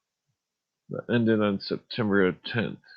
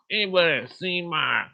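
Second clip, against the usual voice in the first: higher Southern country call, trailing off; 7 semitones higher than usual. Shown as a demonstration. Trying the ashtray line again in country voice. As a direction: start the line country, then lose it. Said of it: "that's my country voice".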